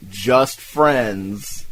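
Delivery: "just friends" set off slowly, as if in quotes; air-quoted words. Retold or imitated. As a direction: put sarcastic quote marks around "just friends". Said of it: "I did air quotes for the just friends part".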